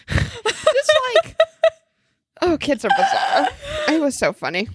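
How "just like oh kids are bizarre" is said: laughing through words. Real, not acted. Laughing after retelling kid story.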